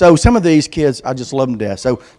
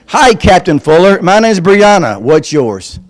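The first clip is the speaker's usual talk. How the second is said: put-on little girl's voice; 4 semitones higher, 5 dB louder, slower than usual. Reading girl's letter.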